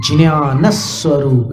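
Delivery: ज्ञान struck hard with a falling tune; accent the word ज्ञान in ज्ञान स्वरूप; stress on ज्ञान. Shown as a demonstration. Teacher pointing out the accent on ज्ञान. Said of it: "यहाँ स्वराघात भी है".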